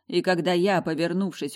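plain reading voice

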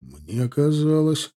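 a hint of a darker, grim tone; grim low voice. A narrator's reading. Soldier grimly beginning his reproach, in a grim low voice. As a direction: start slowly and grimly. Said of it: "мрачным низковатым голосом".

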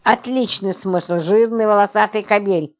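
sarcastic, mildly angry jab; enraged sarcasm. Acted. Роман mocking her beloved husband, crossly sarcastic. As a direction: spit out the mockery with contained anger. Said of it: "Роман вдруг взбесился".

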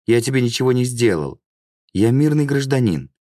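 high, protesting plea; pleading victim. Acted. Pinned victim to his attacker, pleading high.

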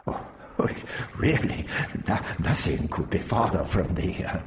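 put-on halting old man's protest; Prapillus, flustered. Prapillus denies the row to Barbara, flustered. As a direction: fumble for words in mild reproof.

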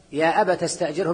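أبت said with the t open, "abata"; with fatha. Shown as a demonstration. Teacher recites the verse as Ibn Amir reads it, with fatha. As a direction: sound the final تاء of أبت with a clear a. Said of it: "بالفتح".

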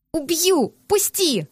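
high, furious cry to be let go; furious struggle. Acted. Heroine fighting her captor, furious high cry. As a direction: spit it out at him, fighting free.

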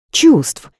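high mocking scoff; scoffing snort. A narrator's reading. Friend Rita scoffs at the boss's feelings. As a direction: scoff at the very word. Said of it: "хмыкнула Рита".

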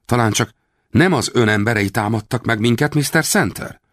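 high, mock-wounded question; a touch of staged hurt; feigned dismay. A narrator's reading. Rawlins feigning shock. (színlelt megdöbbenés)

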